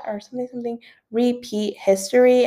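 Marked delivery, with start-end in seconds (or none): 1.1-2.4 "repeat" split as re-PETE, the second syllable stressed. Retold or imitated. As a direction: lean on the "Pete" inside "repeat". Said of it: "she does emphasis on the Pete".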